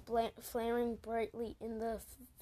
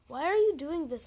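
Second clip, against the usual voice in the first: louder, pleading cry of protest; 4 semitones higher, 9 dB louder than usual. A narrator's reading. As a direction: call out in distress. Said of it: "Sunny cried".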